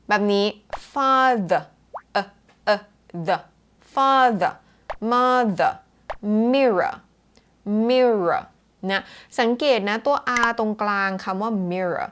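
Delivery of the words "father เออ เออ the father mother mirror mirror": 'father', 'mother', 'mirror' ending in a loose 'uh'; relaxed schwa endings. Shown as a demonstration. Teacher demonstrating the schwa, 'father' with relaxed 'uh'. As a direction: let 'father' fall away into 'uh', no R. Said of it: "คือแบบกล้ามเนื้อใดๆ คือแบบรีแลกซ์มาก".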